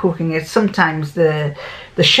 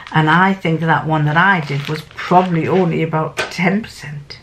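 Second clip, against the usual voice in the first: whispered aside; 3 semitones lower than usual. Real, not acted. Aside to viewers.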